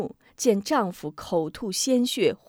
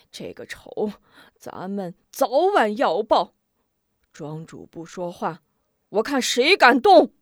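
shouting; 2 semitones higher, 4 dB louder than usual. Acted. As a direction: bellow at them to stop. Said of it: "老管家急忙大喊". (急忙大喊)

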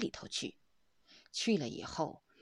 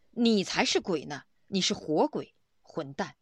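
retold bystander's angry retort, louder; 4 dB louder than usual. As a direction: snap back like an offended stranger, half-acted. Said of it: "旁边一个人就火了，大声说".

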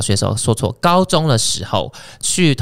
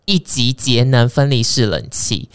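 ad read. Acted. Host reading a sponsor ad to listeners, salesy. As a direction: read the sponsor spot like a pitch. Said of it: "好，业配结束".

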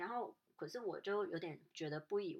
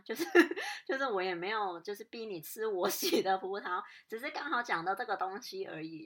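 half-laughing, a little louder; laughing while talking; 2 semitones higher, 7 dB louder than usual. Real, not acted. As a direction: laugh through the words in disbelief. Retelling being scolded over grapes.

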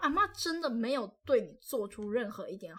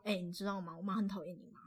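softer, sly secret-telling; child telling cousin a secret, hushed; conspiratorial whisper-like; 4 semitones lower, 7 dB quieter, faster than usual. Retold or imitated. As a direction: lean in and spill a secret. Kid tells brother secret.

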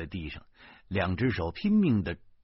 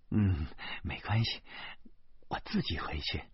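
demurring; 2 semitones lower, 8 dB quieter than usual. Acted. Teacher tells the man she can go alone, softly demurring. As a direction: brush off the offer quietly. Teacher hurriedly declines the escort.

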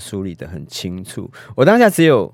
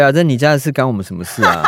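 mocking reviewer; 3 semitones higher, 3 dB louder, faster than usual.

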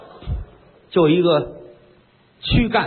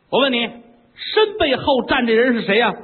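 coy concubine; 7 semitones higher than usual. Acted. 妃子娇声发问.

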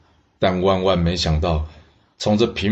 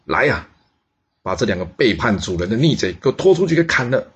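stern shout; 4 semitones higher than usual. Acted. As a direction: bark the execution order to the guards. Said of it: "晋文公大喝一声".

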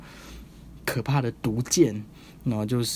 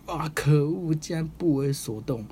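mock villain frustration; 5 semitones higher, slower than usual. Demon king frustrated.

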